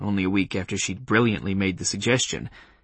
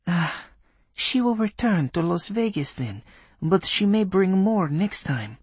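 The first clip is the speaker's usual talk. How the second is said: put-on Polish accent; 9 semitones higher than usual. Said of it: "in a Polish accent".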